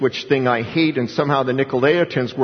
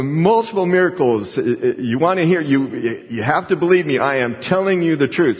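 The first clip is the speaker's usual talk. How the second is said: higher-pitched, emphatic retelling of a witness; imitated earnest insistence; 3 semitones higher than usual. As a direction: act out someone urging to be believed.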